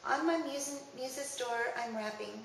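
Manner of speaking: rhythmic, measured recital of rhymed verse; poem reading. Acted. Reading a poet friend's verse to listeners, rhythmic recital. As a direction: lean gently on the meter and rhymes.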